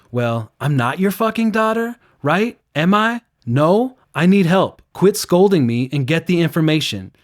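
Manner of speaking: high, loud, indignant comeback; angry retort. Retold or imitated. Rape survivor telling the scolding officer off, loud and angry. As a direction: snap back at him, furious and fed up. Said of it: "She's like".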